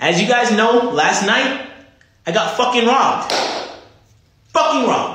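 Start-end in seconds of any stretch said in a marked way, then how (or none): 2.3-5.2 really angry outburst with swearing. Speaker addressing his audience, trying to record in one take, really angry. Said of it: "because I'm really angry right now".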